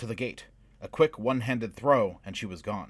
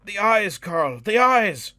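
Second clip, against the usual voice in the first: frantic high shout, voice cracking; voice breaking; 12 semitones higher, 11 dB louder, slower than usual. A narrator's reading. Wizard urging Carl to strike the eyes, voice breaking. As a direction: scream it, voice breaking with panic. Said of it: "his voice breaking".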